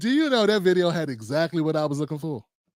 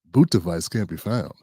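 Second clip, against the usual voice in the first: much lower, puzzled echo of the error; baffled repeat; 10 semitones lower than usual. Retold or imitated. Host echoing the computer's error message, low and baffled. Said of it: "I'm like".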